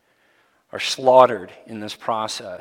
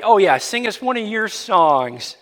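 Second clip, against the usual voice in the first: taunting, higher and louder sing-song jeer; mock the exiles like a cruel captor; 3 semitones higher, 5 dB louder than usual. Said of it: "They're mocked".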